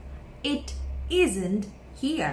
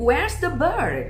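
"Where's the bird?" called out louder and higher; louder higher question; 4 semitones higher, 4 dB louder, much slower than usual. Shown as a demonstration. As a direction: quiz the class, calling out. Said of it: "ลองเปลี่ยนคำถามบ้าง".

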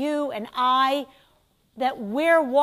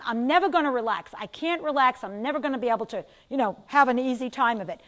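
mock anxious worrier; 4 dB louder, faster than usual. A worried student's inner voice frets to itself, hammed-up anxious. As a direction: rattle off the worries like a fretting mind. Voicing a worried person's thoughts.

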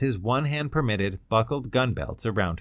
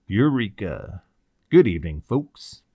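loud triumphant greeting; hearty hail; 2 semitones lower, 5 dB louder than usual. Acted. Cloud greets the captives he has found, hearty hail. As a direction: call out to the people just found.

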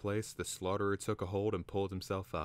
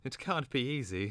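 higher-pitched, gentle sympathy; sympathetic; 7 semitones higher than usual. A narrator's reading. Twig to the knocked-down Slaughterer, sympathetically. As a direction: feel for him, lifting the pitch. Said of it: "said Twig sympathetically".

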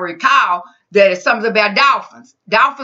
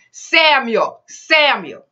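higher, falling call, drawn out; calling a name; 4 semitones higher, much slower than usual. Acted. The Lord calling young Samuel in the night, higher call. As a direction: gently call out the boy's name, twice. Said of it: "calling as other times".

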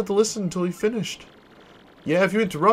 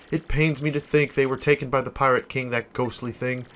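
a lower, solemn journal voice; diary reading; 3 semitones lower than usual. Acted. Merchant writing his castaway journal, solemn and lower. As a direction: read it like a shipwreck log. Flavio's castaway log read.

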